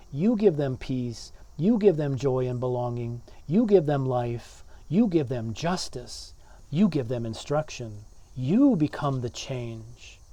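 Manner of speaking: preacher's insistent refrain, hitting "You" at every start; emphatic YOU. Retold or imitated. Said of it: "the you is emphatic".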